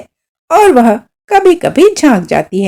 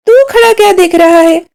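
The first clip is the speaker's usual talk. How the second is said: higher, sharp rebuke; scolding snap; 8 semitones higher, faster than usual. A narrator's reading. Father scolding his son for standing idle, higher sharp rebuke. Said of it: "पिताजी ने मुझे झिड़क कर कहा".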